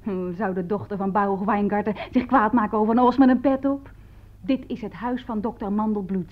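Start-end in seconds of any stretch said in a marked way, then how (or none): 4.4-6.3 lightly imitated composed lady; calm and dignified. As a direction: quote her with quiet dignity, slightly understated. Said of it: "mevrouw bleef kalm en waardig".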